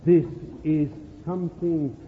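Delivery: put-on slow, low, soft words to a child; parent instructing. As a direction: gently teach your son.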